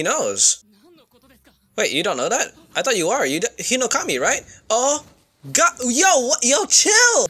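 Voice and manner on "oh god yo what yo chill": high, startled outburst; alarmed protest. Real, not acted. Fan telling a character to chill, alarmed. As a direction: tell them to stop, pitched way up.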